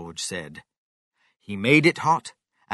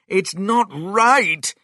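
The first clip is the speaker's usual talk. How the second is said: loud, high, slow exclamation; crying out; 10 semitones higher, 8 dB louder, slower than usual. A narrator's reading. Mister Cranky seeing the chicken's legs grow, crying out. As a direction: cry out in dismay, drawing it out. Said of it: "cried Mister Cranky".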